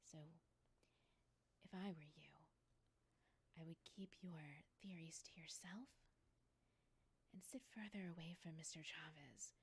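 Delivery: soft, measured, half-whispered warning; understated cold authority, breath in the voice; quiet rebuke. Acted. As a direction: cut them off with controlled restraint. Boss stares down and warns employee.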